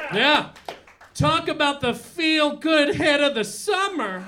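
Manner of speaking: put-on hammy old-school lounge comic voice; old borscht belt comic. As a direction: work the room like a cheesy nightclub comic. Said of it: "acerbic comedian".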